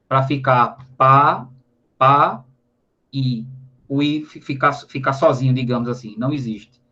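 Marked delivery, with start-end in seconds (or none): 1.0-3.5 "pá, pá, i" spoken as separate beats, drawn out; splitting into syllables. Shown as a demonstration. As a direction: say "pá, pá, i" as three isolated syllables, slowly. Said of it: "Não tem a separação pra ficar". ("pá, pá, i" pronunciado sílaba por sílaba, pausado)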